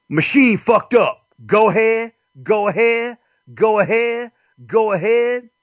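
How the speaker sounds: hammed-up impatient counter worker; mock dismissive cashier. Cashier voiced in drive-thru bit.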